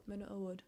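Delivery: Awad ending like "wood"; trying another pronunciation. Shown as a demonstration. Reader repeating the author's name to test it, trying another pronunciation. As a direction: round the last vowel of Awad to a short "oo". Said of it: "pronounce her name with my accent".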